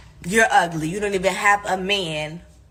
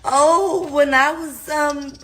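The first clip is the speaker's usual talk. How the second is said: higher and louder, a whiny mock of a commenter's story; 6 semitones higher, 3 dB louder than usual. Ranting host mocks commenters in a higher, louder whiny voice. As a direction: squeak it out like a silly commenter telling her sad tale. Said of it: "y'all are in the comments like".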